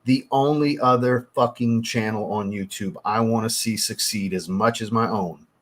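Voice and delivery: weight on "only other", then draw out "succeed as much as my own"; emphatic. Real, not acted. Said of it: "I can't say this with enough emphasis".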